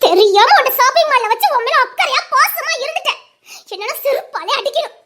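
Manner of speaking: upset, regretful tirade; hurt, angry lament; tearful self-reproach. Acted. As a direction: berate yourself close to tears. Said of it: "நீ அழுற?".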